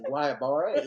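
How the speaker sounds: "Guayabara" in a lightly put-on hillbilly accent, rising at the end. Retelling his own botched word to Nancy, mild hillbilly accent. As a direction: say "Guayabara" the way a country boy would, a touch hammed-up. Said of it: "you know, in hillbilly accent".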